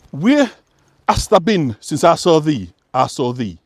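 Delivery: lyrics read in a light broad West Yorkshire accent; gently voiced West Yorkshire dialect reading. Shown as a demonstration. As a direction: give the old Yorkshire song words their dialect sound. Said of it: "how it sounds in an authentic West Yorkshire".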